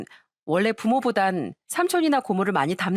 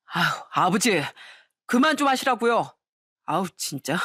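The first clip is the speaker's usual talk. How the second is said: mild fed-up protest; exasperated husband; 2 semitones lower than usual. Acted. Husband begs his drunk father to stop, mildly exasperated. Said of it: "남편은 한숨을 크게 쉬면서".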